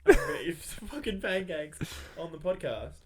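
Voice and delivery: excited plan, breaking into a laugh; laughing through it. Retold or imitated. Host retelling last night's resolve, laughing. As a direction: tell it with a laugh bubbling through.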